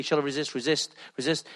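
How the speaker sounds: hesitant inner thought. Retold or imitated. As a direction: ask yourself quietly, torn. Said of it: "you're thinking".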